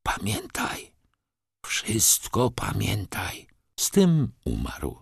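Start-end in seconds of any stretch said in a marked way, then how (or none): 0.0-3.5 soft, slow last words, breath fading; father's final hushed plea; dying whisper. Acted. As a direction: press each word on the son gently. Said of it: "wyszeptał".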